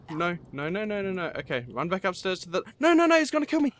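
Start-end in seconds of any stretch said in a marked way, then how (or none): 2.8-3.7 high, loud frightened cry as it catches up; real panic, voice jumping up; terrified yelp of no no no; panicked. Real, not acted. Chased by a mob in game.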